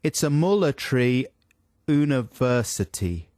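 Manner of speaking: halting South African, "military" as "mullatry"; phonetic South African accent. Acted. Co-host tries Matt Damon's line, South African accent. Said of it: "he should just sound perfectly South African".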